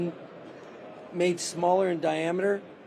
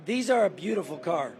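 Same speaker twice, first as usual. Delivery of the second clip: hoarse, voice giving out; 3 dB quieter than usual. Real, not acted. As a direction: push through a hoarse voice. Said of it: "sorry I'm losing my voice here".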